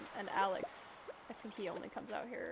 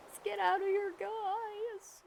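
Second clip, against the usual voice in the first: louder and higher, calling out Let's get outta here to the viewers; 12 semitones higher, 5 dB louder, slower than usual. Real, not acted. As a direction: shout it out to the guys, bright and big. Repeat of the line, called out loud.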